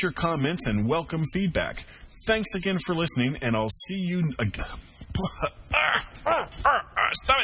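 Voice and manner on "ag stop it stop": breaking into giggles mid-line; can't stop laughing, scolding yourself. Real, not acted. Cracking up during sign-off.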